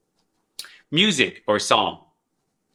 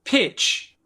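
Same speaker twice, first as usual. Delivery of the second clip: high pitch; 9 semitones higher than usual. Shown as a demonstration. Teacher showing pitch, saying pitch high. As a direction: pitch said much higher. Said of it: "which is".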